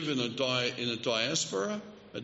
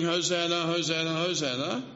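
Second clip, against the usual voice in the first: mock crowd shout; 2 semitones higher than usual. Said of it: "and shouting".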